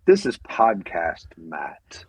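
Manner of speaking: slow, hushed podcast-host persona; put-on podcast voice. Podcaster showing the persona he first tried, put-on podcast voice. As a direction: draw it out like a self-serious host. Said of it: "my podcast voice".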